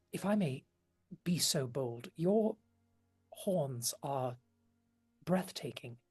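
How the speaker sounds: a touch of a smitten witch murmuring compliments; gentle admiring lady. Acted. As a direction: lean in and speak softly, charmed. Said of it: "puts a hand on your shoulder, just gently, and goes".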